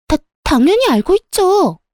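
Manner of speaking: high-pitched, caught-out stutter; flustered stammer. Acted. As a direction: stumble into a high, defensive bluff. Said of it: "당황해서 말을 더듬더라고요".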